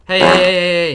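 loud repeated hey; shouting. Real, not acted. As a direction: yell it out in alarm. Yelling at game threat.

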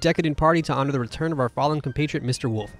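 grand, playful party-invite reading; theatrical invitation read. Acted. Player reading Mister Boar's party invitation aloud, theatrical. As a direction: read it out like a lordly host.

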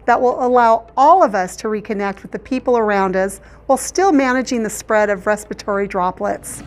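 behind a plastic face guard; speaking through a clear mouth shield. Real, not acted. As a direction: lips covered by clear plastic. Seen 0: thin clear shield visibly worn over her mouth throughout.

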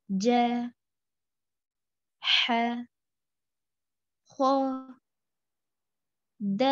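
slow Arabic letter-by-letter recitation with long pauses; recitation drill. Shown as a demonstration. Teacher to students, reciting letters for them to repeat slowly. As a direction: recite each letter, then wait for the class to repeat. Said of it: "repeat after me".

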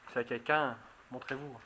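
loud call to unseen spirits. Real, not acted. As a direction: project your voice to the spirits. Addressing possible ghosts aloud.

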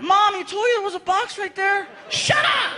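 put-on high, shouted kid scolding mom; kid yelling. Son yelling at mom in a high, shouting kid voice. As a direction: yell it like an exasperated child. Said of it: "Even Frankie was like".

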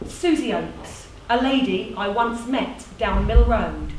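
measured recital building to ringing phrases; performed, emphatic commemoration; monologue tribute. Acted. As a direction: declaim a tribute, then settle to a close.

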